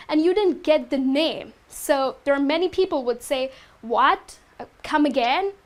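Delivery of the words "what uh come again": rude. Shown as a demonstration. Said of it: "that sounds really rude".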